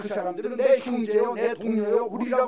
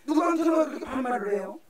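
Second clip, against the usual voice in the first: higher, shocked exclamation; mock indignant protest; 6 semitones higher than usual. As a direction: play the offended congregant. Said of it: "어떤 사람이 이럴 때니까".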